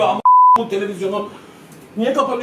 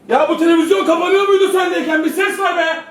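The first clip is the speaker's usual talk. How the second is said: screaming football commentator; 6 semitones higher, 4 dB louder than usual. Real, not acted. Yelling at the dead TV.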